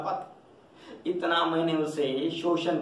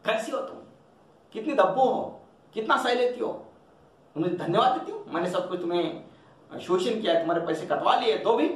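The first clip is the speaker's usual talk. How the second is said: high, exasperated scolding; angry trembling voice; 4 semitones higher, faster than usual. Acted. Master scolds timid Julia, high and exasperated. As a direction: let anger shake the words. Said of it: "गुस्से में मालिक की आवाज कांप लेती है".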